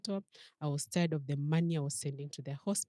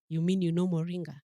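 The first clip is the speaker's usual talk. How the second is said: retold shocked question; 7 dB louder than usual. Neighbour shocked at moringa tea.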